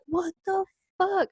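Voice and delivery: high, disbelieving what the fuck; mock disbelief. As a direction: squeak it out in mock shock. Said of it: "it's just like".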